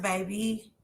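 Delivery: ordinary talk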